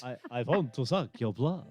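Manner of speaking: hammy mock-Transylvanian vampire accent; Nicolas Cage. Podcaster mocking the film's odd accent, hammy Transylvanian vampire voice. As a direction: do a bad Dracula accent. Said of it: "trying to do with that accent".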